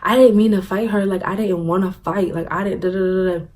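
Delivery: mock-distressed plea, fading into filler; retold upset worry. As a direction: lightly imitate a tearful, worried apology. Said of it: "I sound like I beat the fuck out of her".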